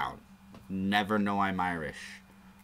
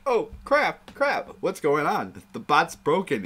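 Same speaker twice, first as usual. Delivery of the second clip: high, hammed-up panicked host; mock panic; 8 semitones higher, 5 dB louder than usual. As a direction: play a host whose show just broke. Imitating panicked show host.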